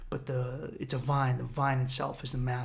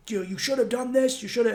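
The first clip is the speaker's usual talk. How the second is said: higher, pushy scolding voice; higher mock scolding inner voice; 8 semitones higher, 3 dB louder than usual. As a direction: nag at yourself from above. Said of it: "And then".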